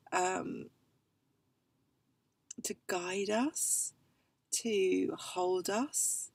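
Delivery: unhurried meditation-style invitation; guided meditation. Acted. Guiding listeners into their tears.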